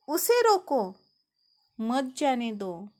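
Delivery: "उसे रोको" ऊँचे, ज़ोर से, फिर ठहरकर धीमे "मत जाने दो"; विराम "रोको" के बाद. Shown as a demonstration. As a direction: pause after "रोको", keeping "मत" with "जाने दो". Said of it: "उसे रुकने के लिए कहा गया है". ("रोको" के बाद रुकें, "मत जाने दो" साथ बोलें)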